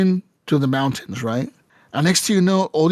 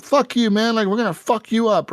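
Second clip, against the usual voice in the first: higher-pitched retold threat; mock threat; 6 semitones higher than usual. Bandits turn on the player, mock threatening.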